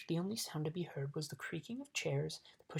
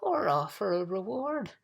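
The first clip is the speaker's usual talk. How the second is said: slow, loud, higher suggestion; eager bug; 4 semitones higher, 6 dB louder than usual. A narrator's reading. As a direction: offer it up emphatically. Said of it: "offered the bug again".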